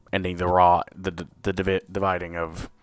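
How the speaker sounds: tripping over the words; halting, tongue-tied delivery; stumbling over words. Real, not acted. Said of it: "Wow, I can't talk".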